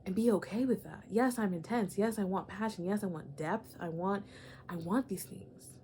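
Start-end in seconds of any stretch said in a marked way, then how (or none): 4.7-5.8 slow hushed whisper of longing; slow, breathy whispered craving. Acted. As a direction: whisper it slowly, like a confession. Confessing desire, whispered.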